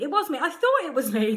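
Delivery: giggling through the words; laughing. Real, not acted. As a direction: laugh while insisting. Laughing over who rang.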